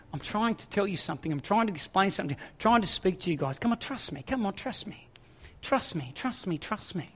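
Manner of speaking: soft, repeated pleading; restrained frustration. Acted. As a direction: urge them quietly, a little frustrated. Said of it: "you can sense this frustration in his voice".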